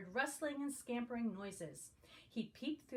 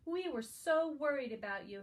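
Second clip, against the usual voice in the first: worried mommy; 4 semitones higher, 5 dB louder than usual. A narrator's reading. Mommy relieved to find bunny.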